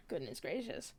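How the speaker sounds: words stretched by a yawn; through a yawn. Real, not acted. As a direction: say it mid-yawn. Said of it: "I am yawning like crazy".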